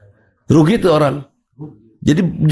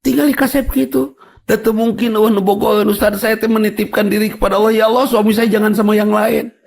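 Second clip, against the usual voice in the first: wife voiced higher; 5 semitones higher than usual. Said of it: "itu udah Ustaz".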